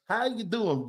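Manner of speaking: lightly mocked phony Southern accent; fake accent. Host comparing a coach to a politician, mock fake accent. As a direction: put on a fake folksy accent. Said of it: "They got the fake, phony-ass accents".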